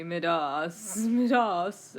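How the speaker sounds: "Midas" as mih-DAHS, stress on the end; imitated pronunciation. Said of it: "your mother says it like that".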